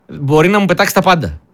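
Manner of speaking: usual speaking voice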